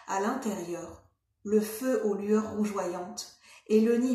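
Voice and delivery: measured poetry recitation; deliberate storybook-poem delivery; poem reading. Acted. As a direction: read verse aloud with pauses between lines. Reads a poem aloud.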